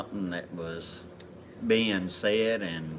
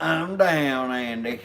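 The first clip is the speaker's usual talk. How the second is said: loud, higher-pitched retort; raised-voice comeback to a friend; calling back; 8 semitones higher, 5 dB louder, slower than usual. Real, not acted. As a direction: call it out over the laughter. Answers teasing by calling out.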